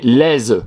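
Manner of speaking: laise with a buzzing z sound, as the wrong spelling would read; wrong sound demo. Shown as a demonstration. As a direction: show what a single s gives. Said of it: "sinon ça fait".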